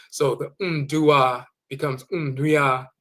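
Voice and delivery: "ndua" stretched very slowly into "nduia"; nasal u. Shown as a demonstration. Teacher repeating the nasal example for English speakers. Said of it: "with a nasal U".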